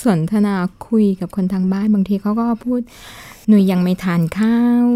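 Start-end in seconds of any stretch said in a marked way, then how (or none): 3.1-4.8 a light, slow southern Thai lilt quoting the daughter; mother imitates her daughter's southern Thai, gently; southern Thai accent. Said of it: "ก็จะออกแบบออกใต้ๆนะคะ". (สำเนียงใต้เบาๆ)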